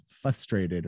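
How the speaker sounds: "frustrated" with the first R dropped, FUS-trated; weird frustrated. Retold or imitated. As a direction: slowly say "frustrated" as fuh-strated. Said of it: "you say it weird".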